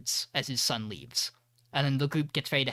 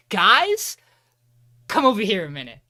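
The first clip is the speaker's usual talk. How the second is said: calling out; 6 semitones higher, 10 dB louder than usual. Retold or imitated. Machida calls guys over.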